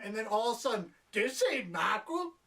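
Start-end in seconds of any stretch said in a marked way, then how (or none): 1.1-2.3 high, slow exclamation imitating a cop; mock cop outcry. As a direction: draw it out in hammed-up disbelief. Repeats cop's absurd line.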